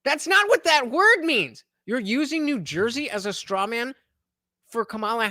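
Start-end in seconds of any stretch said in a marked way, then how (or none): 0.0-1.6 exasperated. Real, not acted. Exasperated correction, slow and higher.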